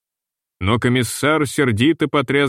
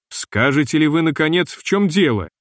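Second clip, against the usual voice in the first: higher, pushed with irritation; annoyed exclamation; 3 semitones higher than usual. Acted. Капитан теряет терпение с комиссаром, раздражённый возглас. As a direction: snap out the question in vexation. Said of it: "он воскликнул с досадой".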